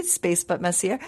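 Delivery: lightly French-accented "Messier", final r softened away; amateur French accent on "Messier". Shown as a demonstration. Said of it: "do it in a French accent".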